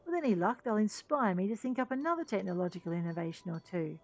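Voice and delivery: lightly acted concession, opening loud; grudging engineer. Engineer yields his sand for a role, grudging then hopeful. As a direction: give in, then bargain hopefully for a part.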